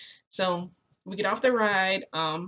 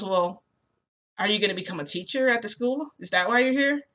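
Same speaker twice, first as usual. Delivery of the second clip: eager questioning; 3 semitones higher, 3 dB louder than usual. Acted. Midoriya asks if narrator will teach, eagerly. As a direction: voice climbing high on the last question.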